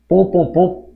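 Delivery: "Pom, pom, pom" in punched, even beats; rhythmic sound demonstration. Shown as a demonstration. Teacher shows students the musicality of assonance, punching each "pom" rhythmically. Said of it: "Esse som, essa, essa musicalidade".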